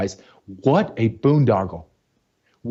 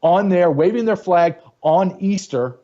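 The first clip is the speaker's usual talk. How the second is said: angry rant; 6 semitones higher than usual. Real, not acted. Heated rant about Easter event.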